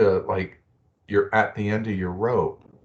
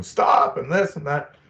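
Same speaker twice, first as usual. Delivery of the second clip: retold shout; 6 semitones higher than usual. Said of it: "you're shouting".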